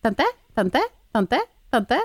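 put-on high insistent child calling tante; child nagging. Mother imitating niece calling tante over and over. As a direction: mimic a kid who won't give up. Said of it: "altså sånn".

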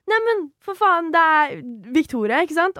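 high, excited recognition; excited stranger. Retold or imitated. A guy at the bar recognizing the youtuber, high and excited. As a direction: gush like a starstruck stranger. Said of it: "en fyr og er sånn".

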